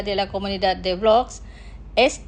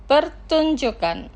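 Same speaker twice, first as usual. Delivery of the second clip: Pertunjukan drawn out slowly, syllable by syllable; slow careful pronunciation; 3 semitones higher than usual. Shown as a demonstration. Teacher models Pertunjukan slowly for listeners, slow careful pronunciation. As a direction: carefully spell out Pertunjukan for learners. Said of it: "Los pronunciaré lentamente".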